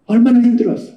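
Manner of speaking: a father repeating his comfort aloud; tender father, voiced. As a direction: say 얼마나 힘들었어 fully voiced with feeling. Father embracing returned son.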